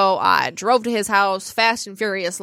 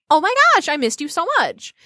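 high, gushing oh my gosh; retold gush over a returning boyfriend; excited greeting; 8 semitones higher than usual. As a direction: squeal it like a lovestruck girlfriend. Greeting boyfriend home early.

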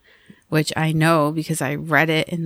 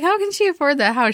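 retold disbelief; 9 semitones higher than usual. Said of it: "I was like".

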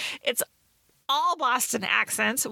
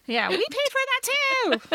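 much higher, squeaky complaint; mock indignant friends; 14 semitones higher than usual. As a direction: join the bit as the fussy friends. Joining the joke as the friends.

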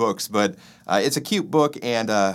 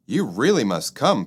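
pleading. Acted. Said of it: "pleaded Ed".

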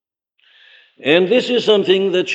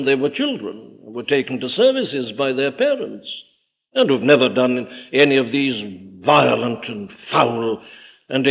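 mock objector; 5 semitones lower than usual. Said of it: "But they say".

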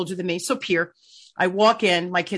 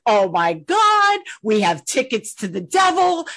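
louder, slow, delighted exclaim; excited; 4 semitones higher, 4 dB louder, slower than usual. Retold or imitated. Accountant thrilled to find a hockey fan, excited. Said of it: "Burst out laughing".

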